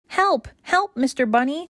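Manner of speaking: puppy stuck in a hole, crying out; frightened cry for help. Acted. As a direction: yell up from the bottom of a hole. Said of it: "she shouts".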